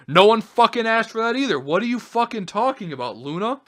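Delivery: real indignant outburst; angry retort. Real, not acted. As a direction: demand an answer.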